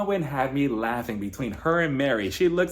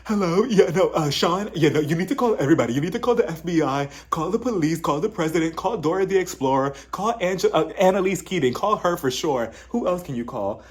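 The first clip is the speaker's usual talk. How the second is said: hammed-up, raised-pitch list of demands; mock frantic phone rant; 3 semitones higher than usual. Woman on the phone demanding backup, mock frantic rant. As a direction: rattle off demands like an outraged caller. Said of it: "Lisa, she loses it".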